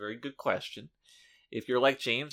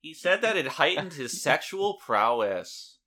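slow, loud nasal narrator voice; hammy nasal YouTube narrator; nasally voice; 2 semitones higher, 6 dB louder than usual. Pretend. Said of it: "You have to talk in, like, a, a really nasally, disgusting voice".

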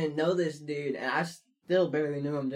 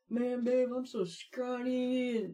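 tag; 8 semitones higher, slower than usual. Retold or imitated. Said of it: "I'd be like".

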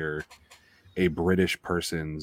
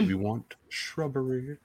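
high, slow, softer put-on film voice; Monty Python quote; 5 semitones higher, 5 dB quieter, slower than usual. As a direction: draw out the comic movie line in a put-on voice. Quoting Monty Python film line.

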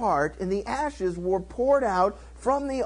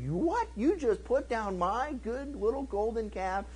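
high, disbelieving retort; mock indignation; 4 semitones higher, 5 dB quieter than usual. King hearing his golden calf insulted, mock indignation. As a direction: act affronted, pitch leaping up on the question.

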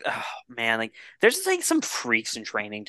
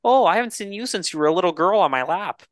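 higher, louder jolly-creep line; mock creepy Santa; 6 semitones higher, 4 dB louder than usual. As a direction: deliver it like a proud Santa. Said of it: "and goes".

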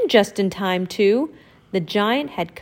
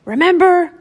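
high, louder warning call; calling after him; 9 semitones higher, 8 dB louder than usual. Acted. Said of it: "called Donald".

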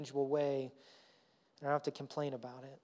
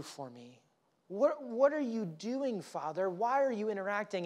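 higher, slowed, whining complaint to father; mock whiny older brother; 4 semitones higher than usual. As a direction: play the sulking older son, voice climbing. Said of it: "He's like".

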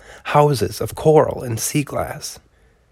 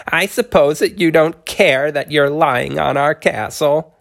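tiny upset turtle voice; 4 semitones higher than usual. Acted. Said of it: "shaking with emotion".

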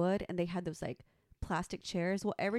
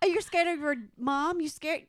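higher, louder laughing jab; mock taunt, laughing; 6 semitones higher, 5 dB louder than usual. Mocking the silent adult son, laughing taunt. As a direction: tease him through a laugh.

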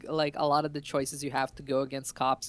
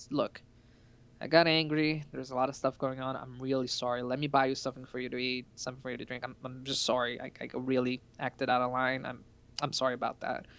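retold apology; 2 semitones lower, 4 dB quieter than usual. Trucker saying sorry to the player, softly apologetic. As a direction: play the trucker backing down, quietly contrite.

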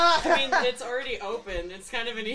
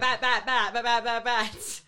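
bat noises; 4 semitones higher, 5 dB louder than usual. Acted. Player voices bats.

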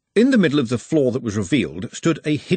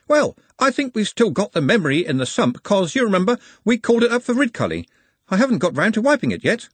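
much higher, hoarse skeleton voice; 10 semitones higher than usual. A narrator's reading. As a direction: play the skeleton high and rasping. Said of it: "It had a rather hoarse voice".

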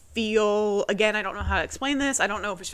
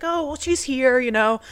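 higher, louder retold comforting; mom's insistent reassurance; 3 semitones higher, 5 dB louder than usual. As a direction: insist on it, pitched up to console. Mom reassures upset daughter, retold.

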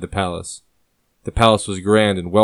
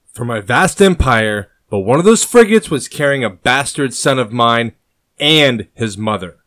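building anger; 3 semitones higher, 4 dB louder than usual. Acted. King grieves and fumes over losses.

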